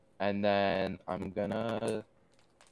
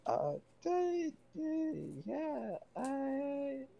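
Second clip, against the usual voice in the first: higher, halting and dazed; stammer, frozen and spaced out; confused stammer; 4 dB quieter, much slower than usual. Acted. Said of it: "same confused sound".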